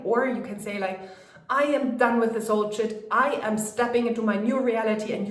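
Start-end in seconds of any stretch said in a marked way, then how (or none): 1.5-5.1 louder, fierce declaration; angry resolve. Shown as a demonstration. Coach showing an angry affirmation, louder and fierce. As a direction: spit it out with anger as fuel. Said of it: "use your, all your anger".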